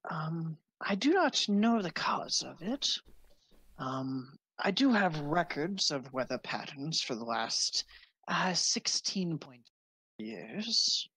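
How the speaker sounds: lightly voiced old librarian wizard, half whispered at first; a hint of a vague old sage; elderly wizard.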